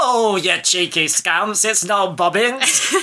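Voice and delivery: high, nasal, drawn-out comic character voice; Frank Sidebottom. Retold or imitated. Podcaster acting the character scolding his puppet, high nasal impression. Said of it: "And he'll go".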